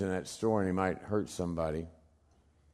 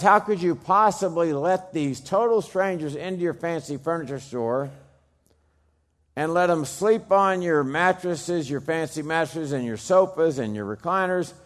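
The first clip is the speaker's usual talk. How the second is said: incredulous; 5 semitones higher, 4 dB louder than usual. Retold or imitated. Reporters' incredulous question retold.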